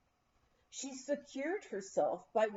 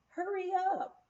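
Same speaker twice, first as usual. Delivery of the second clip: yelling from afar; 10 semitones higher than usual. A narrator's reading. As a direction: call down to them to hurry. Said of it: "they yelled at us".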